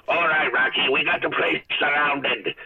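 lightly voiced cartoon gangster impression; slow down into a hammy cartoon stick-up line; a hint of old cartoon tough-talk; Bugs Bunny. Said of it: "I get an Elf and Bugs Bunny".

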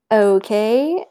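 drawn-out okay, rising at the end; hesitant, questioning okay; acted-out doubtful okay. Husband replying to a strange text, doubtful.

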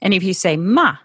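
"ma" falling sharply; "ma" in the fourth tone, scold. Shown as a demonstration. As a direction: snap "ma" down hard. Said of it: "that means scold".

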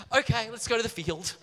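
high, silly, naive voice; hammed-up airhead agreeing happily; ditzy Abel. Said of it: "He's a bit ditzy".

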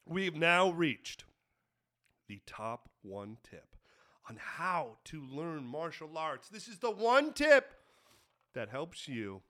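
low, soft lecturing sensei; instructor voice. Acted. Mock instructor resumes.

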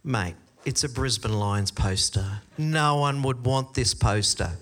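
privately unimpressed, lightly sarcastic; sarcastic inner voice. Retold or imitated. Camp leader thinking to himself about the boy's prize, mildly sarcastic. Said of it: "my sarcastic part of it's going".

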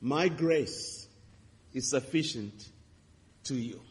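soft, fading reassurance; gentle voice of God. Retold or imitated. God answering the grieving preacher, gently. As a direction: speak it like a tender promise. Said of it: "he said to me".

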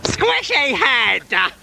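high, slow squeal; drawn-out puppet squeal; squeaky puppet voice. Acted. Puppet character exclaims.

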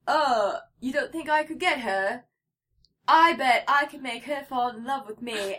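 imitating Hardin's British accent; a light British accent as Hardin. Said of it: "What a great Hardin accent".

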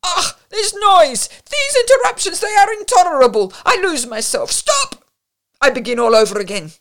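shrill-high furious outburst, very loud; a singer losing her temper at the noise; angry cry. A narrator's reading. Singer yells at noisy guests, furious and very loud. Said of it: "cried angrily".

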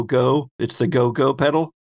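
ordinary talk

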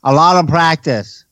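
talking around marbles in the mouth. Pretend. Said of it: "Put the marbles back in my mouth".

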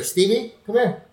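put-on high-pitched coaxing call to a child. Calling over an imaginary child.

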